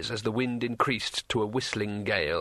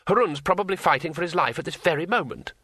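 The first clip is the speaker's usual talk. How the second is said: higher, earnest tourist voice; a touch of excitement, pitched up; lightly voiced tourist; 5 semitones higher than usual. Tourist tells the wizard about the fight, mildly excited.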